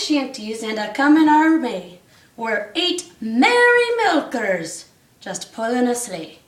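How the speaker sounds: rhythmic read-aloud storytelling; bouncy storybook reading; story narration. A narrator's reading. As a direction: read the rhyme to the class. Reads rhyming Christmas story aloud.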